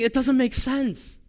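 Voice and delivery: slow, high disbelief; bewildered lament. Retold or imitated. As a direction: draw it out in disbelief. Jeremiah's bewildered complaint.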